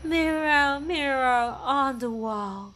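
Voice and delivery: witch asking her mirror, slow. Acted. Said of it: "女巫問佢嘅魔鏡".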